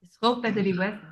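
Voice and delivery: put-on restrained French-accented delivery. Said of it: "a hard thing to say in a French accent".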